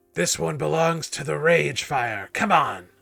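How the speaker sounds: rasping, hoarse delivery. Game master voices an unseen figure among marching people in chains: raspy voice. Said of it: "you hear a kind of raspy voice".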